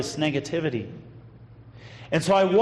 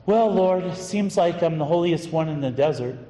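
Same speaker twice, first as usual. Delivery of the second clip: pious. Retold or imitated. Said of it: "said in a very pious response".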